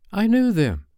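put-on high, emphatic child's brag; annoying boast. A narrator's reading. John annoying the other boys, boastful. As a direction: show off to needle the others. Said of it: "John said to annoy the others".

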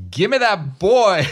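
loud, high, drawn-out cheer; triumphant shout. Real, not acted. Player celebrates a thirteen on the dice, triumphant shout. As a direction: crow over the winning roll.

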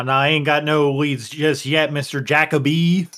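accidental Southern twang; country accent. Real, not acted. Player voices his character to Mister Jacoby, accidental country accent. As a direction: slip into a country accent by mistake. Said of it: "I just suddenly had a country accent".

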